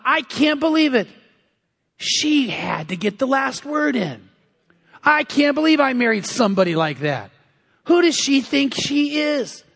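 mock-exasperated husband; retold anger. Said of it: "he is just mad".

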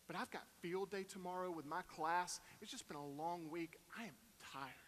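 quiet, worn-out sigh of a voice; tired wife. Retold or imitated. Wife telling the family she's exhausted, quiet and weary. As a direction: sound drained after a long week. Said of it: "And Kim says".

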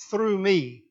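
"through" set apart and pressed, then falling; pause, then hit the word "through"; stress on THROUGH. Shown as a demonstration. Preacher explaining a Greek word, emphasis on "through". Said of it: "the reason I emphasize the word".

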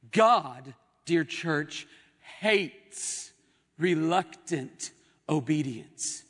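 slow, weighty sermon delivery; deliberate preacher, pausing between key words; emphatic preaching. Real, not acted. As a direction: press each word on the congregation. Preaches with force.

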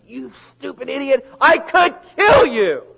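high, loud, raging playground shout; furious yell. Retold or imitated. Child yelling at a playmate on the playground, furious shout. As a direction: scream it at the other kid like you mean it.

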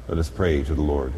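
normal talking voice

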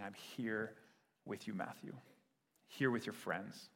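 soft, low, tender reassurance; gentle reassurance. Acted. Jesus reassuring Matthew that he is present, gently. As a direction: speak softly and intimately, with pauses.

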